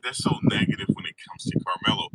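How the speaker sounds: high breathy mock voice; mocking her. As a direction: parody her whining. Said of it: "Well, I guess she said".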